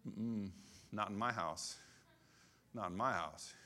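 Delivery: low, firm parental refusal; imitated no-nonsense parent, pitched low; stern parent. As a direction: lay down the law as a parent. Voices his parent refusing.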